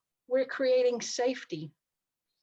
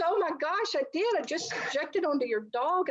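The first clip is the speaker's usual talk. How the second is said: higher, bright sudden "oh my gosh"; surprised realisation; 6 semitones higher than usual. Retold or imitated. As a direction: catch yourself out with a laugh. Client realises, laughing at herself.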